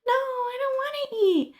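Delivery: high, fast squeaky llama voice. Acted. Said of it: "That's my llama voice".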